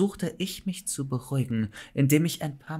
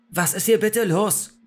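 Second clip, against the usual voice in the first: raised, loud desperate question; high, frantic plea; 7 semitones higher, 5 dB louder than usual. A narrator's reading. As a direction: demand an answer in despair. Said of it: "fragte ich verzweifelt".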